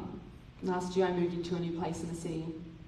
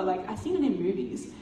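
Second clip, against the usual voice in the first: anxious inner monologue. Retold or imitated. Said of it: "literally role-playing this in my mind".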